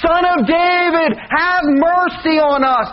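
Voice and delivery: mild shout. Retold or imitated. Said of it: "followed behind him shouting".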